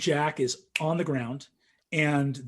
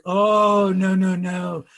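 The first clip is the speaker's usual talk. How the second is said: mock horror at yourself; a hint of helpless alarm; mock dread; 2 semitones higher, 7 dB louder, much slower than usual. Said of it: "and I was like".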